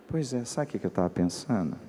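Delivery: soft, low imitation of mother; hushed, as if letting someone in on a secret; quietly scheming mother; confidential low voice. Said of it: "começou a falar assim mais baixinho".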